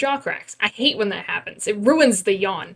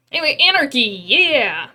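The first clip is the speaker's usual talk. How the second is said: excited cheer; 3 semitones higher, 5 dB louder than usual. Real, not acted. Cheering anarchy again.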